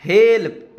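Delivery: teacher stressing "हेल्प"; model pronunciation. Shown as a demonstration. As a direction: give "हेल्प" firmly as the model. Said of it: "H E L P".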